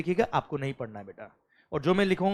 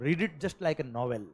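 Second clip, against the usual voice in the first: slow, soft advice; 2 semitones lower, 8 dB quieter, much slower than usual. Real, not acted. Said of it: "मैं guarantee से कह रहा हूँ".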